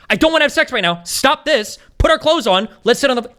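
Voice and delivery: high, insistent acted commands; firm refusal. Debater modelling what she should say, firm and insistent. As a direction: act out refusing him point by point.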